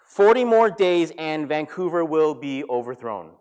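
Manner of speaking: loud, slow declaration; booming, drawn-out prophet's warning; prophetic proclamation. Retold or imitated. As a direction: proclaim it to a whole city, word by word. Jonah's sermon turned on Vancouver.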